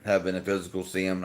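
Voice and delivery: talking around ice cubes; ice in mouth. Real, not acted. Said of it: "I got ice in my mouth".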